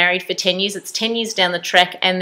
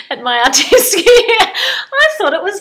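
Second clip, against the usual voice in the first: giggling through the words; higher, giggly self-mocking pride; laughing; 12 semitones higher, 4 dB louder, slower than usual. Real, not acted. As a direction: laugh as you brag about it. Laughing at her own pancake.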